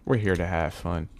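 mild, gentle reassurance; nice. Real, not acted. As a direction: say it nicely, calming back down. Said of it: "I sounded so damn nice".

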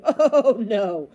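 loud, drawn-out cry of horror; horrified gasp. A narrator's reading. Boy dreads the captain's plan, horrified. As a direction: cry out aghast. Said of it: "gasped Bartholomew".

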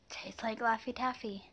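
talking while biting candy; words around chewy sweet; candy in mouth. Real, not acted. Seen 1: Bites a candy stick during first half, then holds it at lips.

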